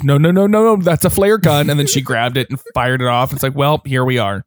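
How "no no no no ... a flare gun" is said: retold urgent warning. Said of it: "and Clancy goes".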